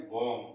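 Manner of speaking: बॉम्ब ending on m, b silent; correct pronunciation. Shown as a demonstration. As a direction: say बॉम्ब as "bom". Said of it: "इसको बोलते हैं".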